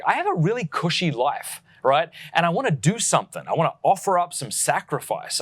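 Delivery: upbeat, emphatic sponsor read; podcast ad read. Acted. Host pitching sponsors before the show, ad read. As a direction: sell it to the listener with punched key words.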